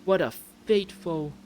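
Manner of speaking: high, slow put-on British voice; wing a high British accent, phrase by phrase. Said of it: "continue the accent just so I have more practice".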